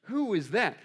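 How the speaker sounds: mock bewilderment; puzzled wife. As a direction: imitate a baffled wife asking. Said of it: "my wife looks at me from across the room like".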